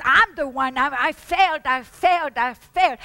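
anguished confession. Acted. Preacher voicing a believer's guilt, loud and anguished. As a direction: pound out the self-blame.

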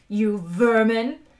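slow, loud growled insult; loud, slow menace; menacing growl. A narrator's reading. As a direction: spit out contempt, drawn out. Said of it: "he growled".

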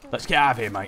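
put-on London geezer accent; casual cockney lad voice; British accent. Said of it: "this voice is killing me".

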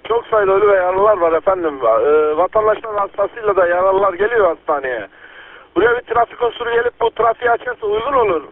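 police radio. Real, not acted. Earthquake emergency radio traffic.

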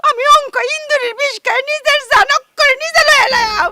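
crying out a threat to poison herself; wailing threat. Acted. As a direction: wail it through tears. Mother threatens suicide, wailing.

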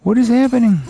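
exasperated outburst. Real, not acted. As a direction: throw up your hands at the game. Frustrated gamer yelling at game.

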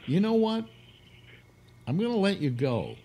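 the bear gloating over the hunter; talking bear. Acted. Bear lets the hunter off, high smug voice.

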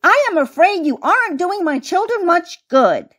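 high, disapproving mouse voice; mouse teacher reproach. A narrator's reading. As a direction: gently scold as a squeaky schoolmistress. Lady Mouse scolds the bunny.

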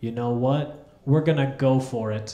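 low offhand shrug of a line; casual pilot. Retold or imitated. Scene: pilot tells passengers he'll push on, low casual offhand. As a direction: drop it casually like a coach. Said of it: "He goes".

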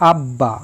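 আব্বা said as ab-ba, both b sounds clear; আব্বা with a doubled b; unaltered ব. Shown as a demonstration. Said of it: "বয়ের উচ্চারণ অবিকৃত থাকে".

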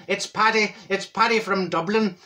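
lightly put-on Dublin accent; lilting mock-Irish character voice. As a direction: introduce yourself as an Irishman from Dublin. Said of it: "that was more like it".

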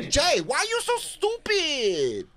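high, slow scolding Latina; fiery Latina. Shown as a demonstration. Coach playing Lou's girlfriend scolding Jay, high fiery Latina. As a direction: pitch way up, drawn-out scold. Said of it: "a spicy female Latina".

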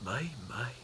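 low, soft and kindly; gentle. A narrator's reading. Tramp gently greeting scared Mister Jelly, low and soft. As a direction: soothe the frightened little fellow. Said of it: "said the tramp gently".

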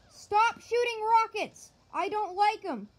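desperate outburst; frantic yell. Real, not acted. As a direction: yell at the rockets. Rockets hitting him.

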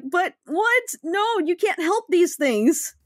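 high incredulous protest; exasperated. Retold or imitated. Reacting to the parents in the scene, exasperated disbelief.

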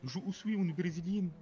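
put-on Portuguese-accented French. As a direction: speak French with a Portuguese lilt. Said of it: "tu as trop l'accent portugais".

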